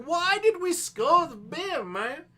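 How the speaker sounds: high, loud, drawn-out mock question; puzzled viewer voice. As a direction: play a baffled fan asking why.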